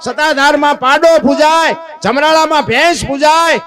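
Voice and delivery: high emphatic sermon voice; impassioned exclaiming. Acted. Preacher exclaiming to listeners that animals are worshipped.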